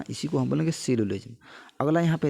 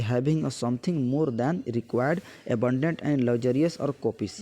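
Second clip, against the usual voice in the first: slow word-by-word reading of a definition; slow dictation; much slower than usual. Acted. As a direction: read it out slowly so students can copy it down.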